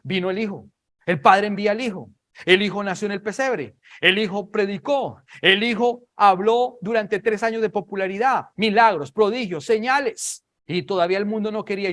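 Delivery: high, loud sermon build-up; forceful preaching. Real, not acted. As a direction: drive each phrase home from the pulpit.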